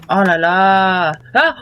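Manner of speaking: scared horror game streamer. Real, not acted. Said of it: "il m'a fait peur".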